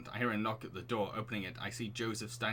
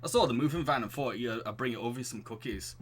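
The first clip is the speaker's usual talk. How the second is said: wobbly put-on Yorkshire accent; a neighbourly Yorkshire greeting, loosely imitated. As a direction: attempt a Yorkshire dad. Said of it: "I'll give him a Yorkshire accent".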